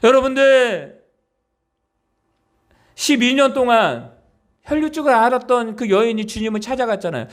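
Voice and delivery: usual speaking voice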